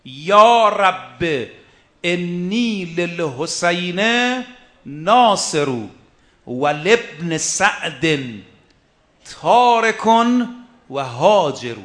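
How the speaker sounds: slow, drawn-out chanted recitation of Arabic verse; slow poem recitation. Shown as a demonstration. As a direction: intone each phrase of the verse slowly with long pauses.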